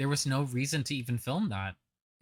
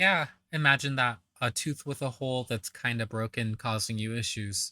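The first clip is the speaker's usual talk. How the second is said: sarcastic. Real, not acted. Sarcastic reply to the tooth story.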